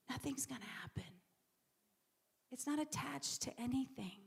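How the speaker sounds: hushed whisper, sudden and quick. Real, not acted. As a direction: drop to a fast whisper for the point. Preacher drives home a point.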